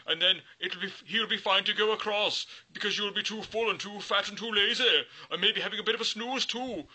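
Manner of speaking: high, loud coaxing goat. Acted. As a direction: sell the idea like a crafty goat. Goat persuading the troll.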